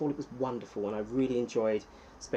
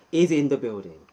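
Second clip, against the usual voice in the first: announcer call; 8 dB louder than usual. Acted. Streamer hyping a viewer's arrival, loud MC call. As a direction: boom it out like a ring announcer.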